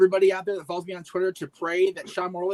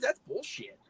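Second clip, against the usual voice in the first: whispered aside; 6 semitones higher, 8 dB quieter, slower than usual. Real, not acted. Muttered verdict on burger law.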